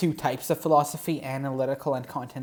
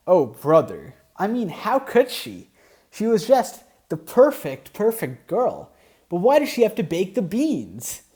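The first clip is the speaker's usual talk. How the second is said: high, loud hammed-up lament; mock despair; 6 semitones higher, 5 dB louder than usual. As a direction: wail over the perfect girl. Mock heartbroken outrage.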